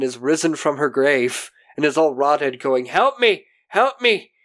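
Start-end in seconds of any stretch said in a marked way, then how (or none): 2.9-4.3 high-pitched imitated plea; mock cry for help. Old woman risen from the grave, mock pleading. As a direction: call out a hammed-up plea for rescue.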